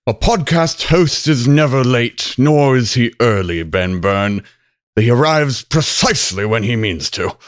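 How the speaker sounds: Gandalf impression.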